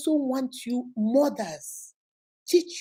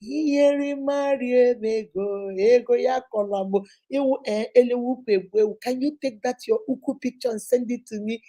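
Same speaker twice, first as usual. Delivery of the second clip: a light put-on sweet-talker, the Igbo drawn out slowly; mock flattering man. Mimicking a man flattering her to get a photo, lightly voiced. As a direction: tease the smooth-talking suitor. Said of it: "because the man say".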